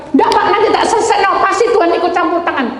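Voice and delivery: high, fast mock confidence; mocking a preacher who thinks she knows best; know-it-all. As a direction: rattle it off like a smug know-it-all. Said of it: "Ibu sok pinter".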